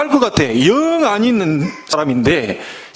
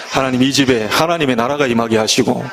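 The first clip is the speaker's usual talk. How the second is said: short prayer; 4 semitones lower than usual. Retold or imitated. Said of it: "그저 갈 때만 하나님".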